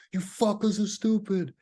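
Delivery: high, sneering insult; scornful time traveler. Pretend. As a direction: spit it out high with contempt. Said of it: "I'd be like".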